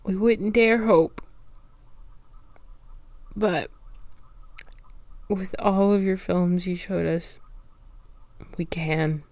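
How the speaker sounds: soft, whispered, emotional; tearful hushed resolve. Real, not acted. Host speaking for Black community, tearful whisper. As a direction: speak of purpose through tears. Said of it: "I'm literally crying".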